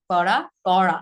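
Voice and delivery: "করা" first with a light r, then a pressed retroflex r; tap-then-flap contrast. Shown as a demonstration. Teacher drilling the two r sounds, contrasted. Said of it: "পার্থক্য কিন্তু অবশ্যই আছে".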